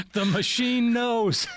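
slow, laughing through the line; laughing quote. Retold or imitated. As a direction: repeat the line while cracking up. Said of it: "just like Michael Scott did in, in The Office".

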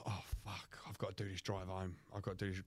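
soft, dreading mutter, barely voiced at the start; hushed, reluctant self-talk; muttered to himself. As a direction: whisper the dread to yourself.

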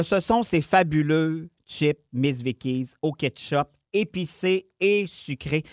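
ad read. Acted. Ad-like product praise.

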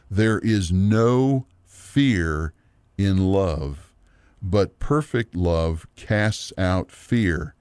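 slow, weighty Bible reading; scripture reading. Acted. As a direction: draw out each phrase of the verse, pausing between them. Reads scripture aloud.

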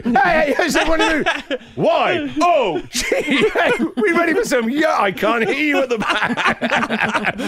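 the opposite of a calm yoga teacher, all hype; hyped-up yoga teacher. Pretend. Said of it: "I'd be a terrible yoga teacher".

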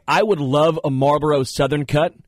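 lightly put-on Southern drawl; a hint of borrowed Southern twang. Host joking about catching friends' accents, light Southern drawl. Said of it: "a nice little Southern drawl".

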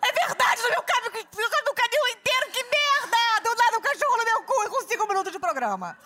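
high, loud outraged yell; acted anger. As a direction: rage back in mock outrage. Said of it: "Num crescente de raiva". (raiva encenada aos gritos)

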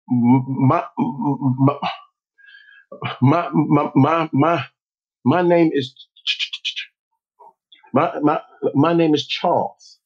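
halting, repeating every syllable; imitated stutter. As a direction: stutter through the words nervously. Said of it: "you used to st-, st-, stutter".

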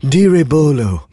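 slow, stiff foreigner's Hindi; bad American Hindi. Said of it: "terrible Hindi in that movie".

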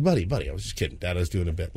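low, soft apology; soothing dad. Retold or imitated. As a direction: gently reassure an upset child. Dad soothing upset son.

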